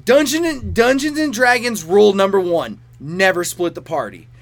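mock wail, high and loud, slowing at the end; exasperated fan yelling at the screen in mock despair; exasperated rant. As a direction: plead like a frustrated player watching a bad move. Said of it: "I'm like".

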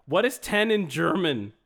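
loud, deliberate device query; speaking to Alexa. Real, not acted. Host calls clearly to a smart speaker.

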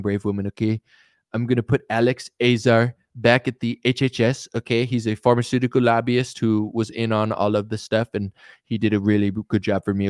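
lightly voiced politician handing out jobs; a hint of Trump thinking aloud; mock cabinet announcement, offhand and self-assured; Trump impression. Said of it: "He's like".

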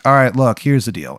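put-on thick, overdone Maryland accent; bad Maryland accent. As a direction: lay on a terrible Maryland accent. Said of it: "how bad this guy's fucking accent is".

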